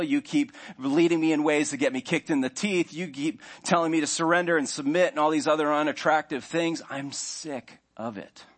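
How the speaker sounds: imagined self telling Jesus to leave the throne; mock proud voice. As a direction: play the arrogant self ordering God off the throne. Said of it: "you saying".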